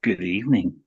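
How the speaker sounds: a touch of a creepy butler; creepy greeting. Acted. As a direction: greet like a horror host. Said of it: "bit creepy".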